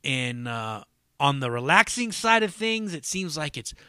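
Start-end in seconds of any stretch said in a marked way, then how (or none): none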